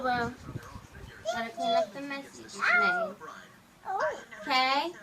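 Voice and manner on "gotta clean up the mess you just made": put-on baby talk.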